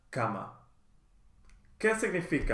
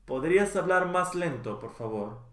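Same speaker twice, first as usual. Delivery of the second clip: natural speed; 3 semitones higher than usual. Shown as a demonstration. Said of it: "teacher models phrase twice".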